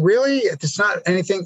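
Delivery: incredulous high "Really?"; mock disbelief; surprised. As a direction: pitch up in disbelief. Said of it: "I said".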